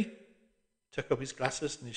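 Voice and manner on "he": ordinary delivery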